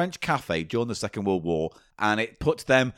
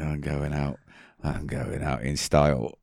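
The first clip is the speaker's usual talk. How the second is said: mock grand exit; 10 semitones lower, 4 dB quieter than usual.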